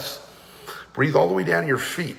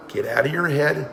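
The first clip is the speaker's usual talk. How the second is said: normal talking voice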